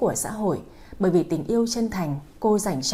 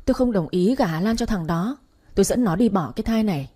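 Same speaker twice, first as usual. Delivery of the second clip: raised, indignant outburst; crying out; 2 semitones higher, 6 dB louder than usual. Acted. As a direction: protest loudly to husband. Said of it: "kêu lên".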